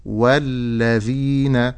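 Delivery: "والذين" slow, long ee, short final na; careful model word. Shown as a demonstration. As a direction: draw out "والذين", ending on a short na. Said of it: "ولكن أقول". ("والذين" بنون مفتوحة دون زيادة)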